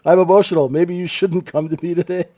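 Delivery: a mildly hammed-up professional turning a client away; mock emotional professional. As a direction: wave the client off with a fake excuse.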